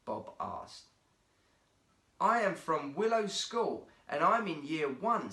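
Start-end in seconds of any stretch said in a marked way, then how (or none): 2.2-5.3 proudly. Acted. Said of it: "said Brian proudly".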